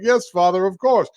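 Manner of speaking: high, placating son imitation; dutiful son. Son answering his spirit father.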